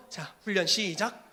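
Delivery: slow, deliberate announcement; teacher starting class. Acted. Teacher opening the Bible, slow and deliberate. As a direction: open the Bible and start the lesson slowly. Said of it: "성경을 펴면서".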